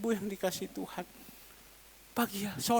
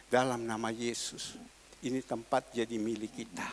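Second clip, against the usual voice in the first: quiet prayer; 10 semitones lower, 5 dB quieter than usual. Retold or imitated. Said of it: "saya hanya bilang".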